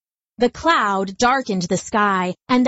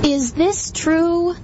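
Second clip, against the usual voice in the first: grave question; 7 semitones higher, slower than usual. Acted. Mother Nature questions.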